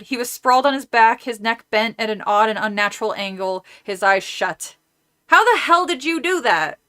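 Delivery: put-on reading a kids' horror book aloud; story narration. A narrator's reading. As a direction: narrate the chapter, characters lightly voiced. Reads novel aloud between chat.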